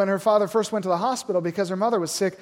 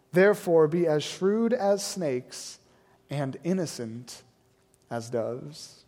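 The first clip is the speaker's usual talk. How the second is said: scripture reading. Acted. Preacher reading the passage to the congregation, solemn. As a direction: read the passage like a preacher opening the text. Reads Matthew ten aloud.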